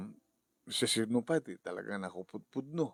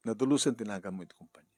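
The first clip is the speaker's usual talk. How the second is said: louder, faster crying plea; breaking into louder, faster pleading; louder tearful plea; 7 dB louder, faster than usual. Acted. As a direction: push the plea out through tears. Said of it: "Are you crying?".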